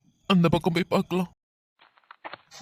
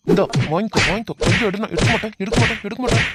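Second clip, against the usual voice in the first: loud bursts, timed with blows; angry fighting shout; 4 dB louder, faster than usual. Acted. Rescuer thrashing kidnapper who refused, angry shouting. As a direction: throw words out with each hit.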